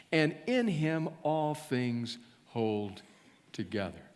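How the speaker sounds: measured, declaimed Bible reading; scripture reading. Acted. Reader reads Paul's letter to the church, scripture reading. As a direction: read it out solemnly, slowing to the final words.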